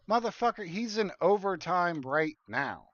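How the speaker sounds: a boss caught off guard, voice jumping up; incredulous boss. Retold or imitated. Boss on the phone, exposing the lie, in high disbelief.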